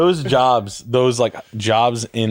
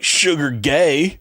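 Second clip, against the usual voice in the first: mock slurred name; 3 semitones higher, much slower than usual. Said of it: "And he's like".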